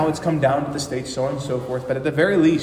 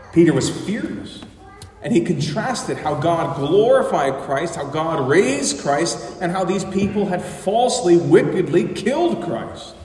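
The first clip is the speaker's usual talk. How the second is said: raised, emphatic preaching with stretched key words; impassioned preaching; 4 semitones higher, 5 dB louder than usual. Real, not acted. Preacher to congregation on Christ raised and killed, impassioned. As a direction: preach it with rising force.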